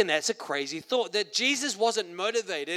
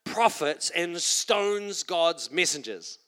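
Jesus crying out; 3 semitones higher, slower than usual. Acted. Jesus shouting over the city, then slowing in sorrow. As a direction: cry the name, then drag out the charge. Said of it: "he says".

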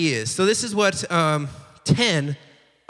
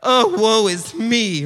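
mock melodramatic wail, slowing into the last lament; hammed-up woe-is-me whining; dramatic complaining; 4 dB louder than usual. Israelites grumbling about the promised land, mock dramatic complaint. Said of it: "they're just getting all dramatic about it".

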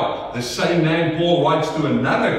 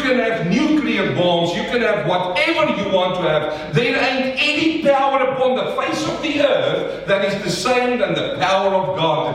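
emphatic preacher, pitch climbing on the big claim; impassioned preaching; 4 semitones higher than usual. Real, not acted. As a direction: preach it with rising conviction. Preaches at full force.

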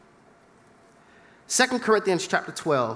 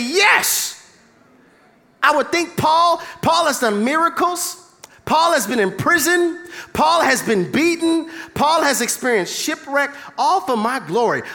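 higher, louder excited God voice; imagined God saying yes; 5 semitones higher, 4 dB louder than usual. Retold or imitated. Preacher playing God granting Paul's wish, excited. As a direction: sell it like God approving. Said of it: "and I would say".

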